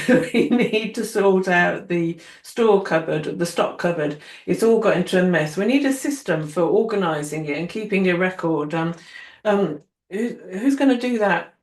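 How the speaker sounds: emphatic boss addressing the team; person in charge. Retold or imitated. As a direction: hand out a chore at a meeting. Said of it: "whoever's in charge is saying".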